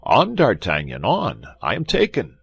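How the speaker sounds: urgent mock battle cry. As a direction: call out to your master mid-fight. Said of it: "how he cried".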